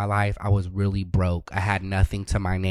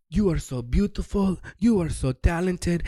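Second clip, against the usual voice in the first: mock flattery; 6 semitones higher than usual. Sugar daddy sitting her down, mockingly flattering. Man lecturing her at Starbucks.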